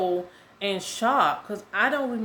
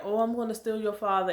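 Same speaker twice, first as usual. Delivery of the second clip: lightly put-on higher nurse voice; retold tease in a higher voice; imitated nurse; 4 semitones higher, faster than usual. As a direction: lightly mimic the teasing nurse, pitched up. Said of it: "she was saying".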